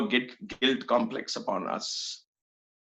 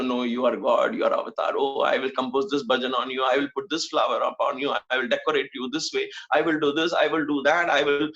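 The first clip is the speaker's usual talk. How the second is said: mock devotee. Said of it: "We sit there and say".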